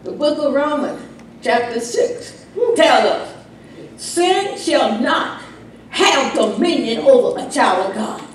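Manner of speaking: usual speaking voice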